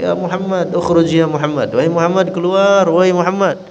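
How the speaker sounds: high, insistent mock yell; shouting for him. Desert man shouting outside Fatimah's house, mock yell. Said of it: "kemudian teriak lagi".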